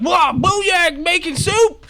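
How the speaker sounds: high, slow goblin wonder; drawn out, high and loud like a woozy goblin; dazed goblin. Acted. Goblin waking up confused, high slow exclaim.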